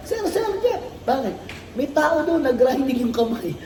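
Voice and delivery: high, half-laughing alarm call to the boss; mock alarmed worker. Worker runs to supervisor Jeff about a grinding accident, mock alarmed and laughing. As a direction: play a worker rushing in to warn sir, laughing through it.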